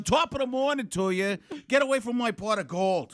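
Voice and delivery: a hint of a playful leprechaun. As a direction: put on a light leprechaun lilt. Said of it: "a leprechaun".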